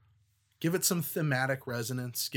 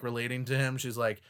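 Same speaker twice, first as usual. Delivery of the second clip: ordinary talk, nothing marked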